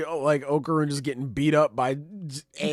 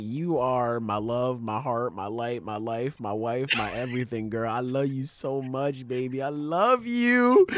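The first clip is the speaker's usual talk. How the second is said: sweet nothings; slower than usual. Retold or imitated. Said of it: "He's like".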